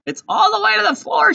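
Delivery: piercing, high shrieked wail; full-volume screech of outrage; yelling. A narrator's reading. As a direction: shriek it in horror. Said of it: "she yelled".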